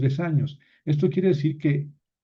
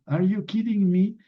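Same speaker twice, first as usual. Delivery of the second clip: English idiom; 7 semitones higher than usual. Shown as a demonstration. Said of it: "Kid es niño".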